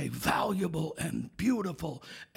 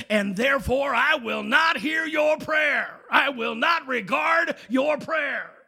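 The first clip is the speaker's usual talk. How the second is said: building from firm to shouted divine anger, much louder and higher; God fed up; 4 semitones higher, 4 dB louder than usual. Acted. Preacher voicing God, fed up with husbands, building to a shout. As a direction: let the anger swell until it bursts out.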